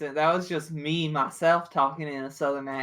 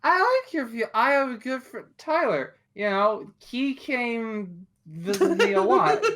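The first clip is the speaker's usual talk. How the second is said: tipsy laughing; 4 semitones higher than usual. Acted. Drunk character rambling, laughing.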